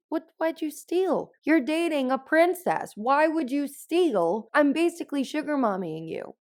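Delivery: high-pitched mock exasperation; acted incredulous scolding. Princess confronting her boyfriend over a theft, in high, incredulous protest.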